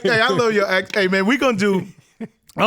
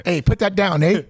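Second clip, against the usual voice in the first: mock Canadian accent. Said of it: "That's Scottish".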